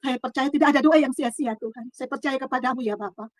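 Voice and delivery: hushed, surrendering prayer retold. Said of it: "saya masuk berdoa di Tuhan". (doa berserah yang diceritakan kembali)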